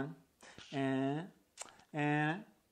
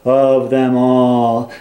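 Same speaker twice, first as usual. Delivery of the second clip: loud, slow, grand Evil Queen asking the mirror; 17 dB louder, much slower than usual. Retold or imitated. Evil Queen demanding of her mirror, slow and grand. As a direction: draw out the mirror line like a vain queen. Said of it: "the Evil Queen's like".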